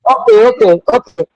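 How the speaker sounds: distorted mic sound; overloaded phone microphone; fuzz distortion. Real, not acted. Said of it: "you still sound a bit distorted".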